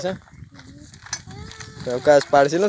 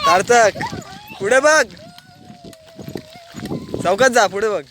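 much higher, louder call across distance; 5 dB louder than usual. Real, not acted. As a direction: shout the name to reach him. Calling out to son on bike. (दूर असलेल्या मुलाला हाक मारणे)

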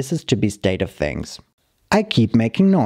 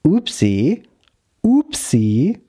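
incredulous repeating, pitched up; upset disbelief; 5 semitones higher, slower than usual. Retold or imitated. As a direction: throw the word back, upset it was shrugged off. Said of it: "Now man monster is very upset".

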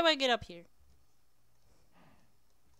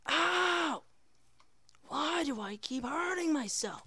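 high-pitched wail of mock agony; pained yelp; 5 semitones higher, slower than usual. Player hurting himself in the game, pained high wail. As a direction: cry out, then whine in complaint.

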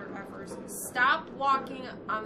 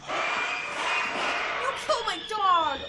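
outraged cry; 7 semitones higher, 5 dB louder, much slower than usual. Real, not acted. Enemy killed his dog.

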